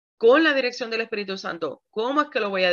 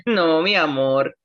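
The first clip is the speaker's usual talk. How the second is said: laughing; 4 semitones lower, 3 dB louder, slower than usual. Real, not acted. Laughs after the skit.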